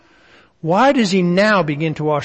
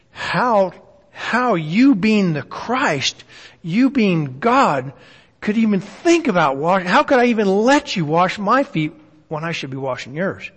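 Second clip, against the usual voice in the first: humbled disbelief. Acted. Preacher voices Peter to Jesus, humbled and disbelieving. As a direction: marvel humbly, dwelling on each "you". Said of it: "was a very humble individual".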